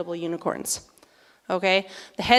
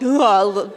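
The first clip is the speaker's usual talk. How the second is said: panicky grunt; 2 semitones lower, 4 dB louder than usual. Retold or imitated. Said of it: "panicking a little bit".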